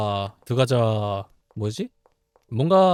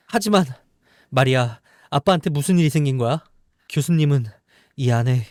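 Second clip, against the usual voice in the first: lightly voiced characters, louder and higher; acted game dialogue; 3 semitones higher, 4 dB louder than usual. Voicing the game's characters for viewers, lightly acted. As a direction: read the story characters with feeling.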